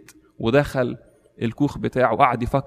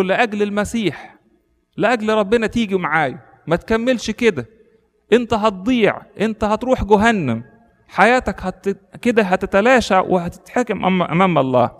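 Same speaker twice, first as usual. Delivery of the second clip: tearful pleading; 7 semitones higher than usual. Retold or imitated. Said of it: "قعد يبكي ويقول له".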